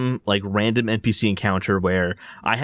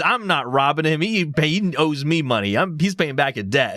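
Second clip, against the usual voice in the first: mock Arthur reply; 7 semitones higher than usual. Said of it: "Arthur responds back to the guy and says".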